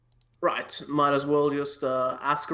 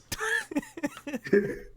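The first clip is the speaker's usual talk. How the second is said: real high laugh, falling away; amused cackle. Real, not acted. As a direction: giggle high. Player laughing.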